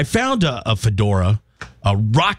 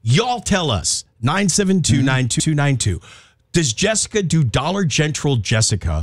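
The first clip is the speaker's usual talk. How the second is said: put-on Southern accent; 6 semitones higher than usual. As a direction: imitate a Southern woman. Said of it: "crank up your Southern accent".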